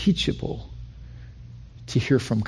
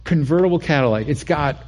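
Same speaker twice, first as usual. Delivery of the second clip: put-on higher, eager kid pitching his dad; eager pleading; 5 semitones higher than usual. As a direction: sell dad on the car, lightly voiced. Young self pleading with dad.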